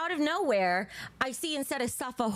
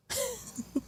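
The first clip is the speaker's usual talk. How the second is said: a short squeaky burst of laughter; high delighted giggle; 13 semitones higher, 6 dB quieter than usual. Real, not acted. Delighted at image.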